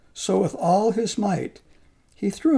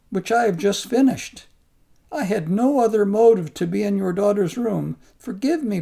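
humble pleading monk; 3 semitones higher than usual. Acted. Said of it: "begged his pardon".

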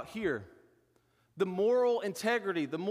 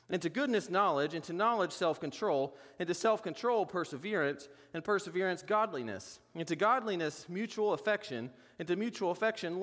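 each virtue stressed, then repeated with rising emphasis; stressed chain. Shown as a demonstration. Reading Peter's list to the congregation, stressing each virtue. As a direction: read the chain, hitting each virtue word. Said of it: "reading scripture chain with emphasis".

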